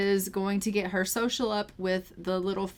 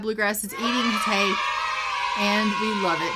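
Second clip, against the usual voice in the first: excited shout. Real, not acted. Horse finally eats.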